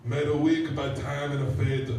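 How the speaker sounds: slow, grand poetic recitation; hammed-up heroic verse reading; Alfred Lord Tennyson. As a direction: declaim it slowly, pausing between phrases. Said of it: "It's my impression of Rudyard, or, uh, Alfred Lord Tennyson".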